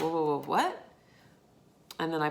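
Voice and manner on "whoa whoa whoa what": replayed double take, sharp rise on "what"; retold disbelief. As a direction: act out stopping short, pitch leaping at the end. Acting out her reaction to the quote.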